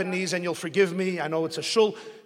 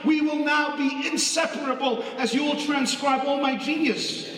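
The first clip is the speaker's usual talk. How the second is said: overjoyed thanks; 5 semitones higher than usual. Retold or imitated. Speaker overjoyed, hugs the listener.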